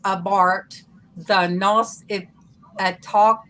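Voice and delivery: slow Southern drawl on Yorkshire; Southern drawl reading Yorkshire. Retold or imitated. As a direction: drag it out Southern style. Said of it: "I did it Southern style. I drug it out".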